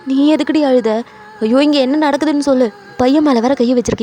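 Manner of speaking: heated, impatient questioning; exasperated scolding. Acted. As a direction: scold and demand the truth. Husband scolds crying wife.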